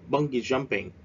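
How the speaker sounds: "bungee jumping" with BUN as the main stress; stress on first syllable. Shown as a demonstration. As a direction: hit the start of "bungee", let "jumping" fall. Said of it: "we straight at the first syllable". (nhấn âm đầu tiên của "bungee" trong "bungee jumping")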